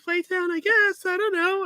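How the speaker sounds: high squeaky dad imitation; dad's voice. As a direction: shrug it off as dad. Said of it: "And he's like".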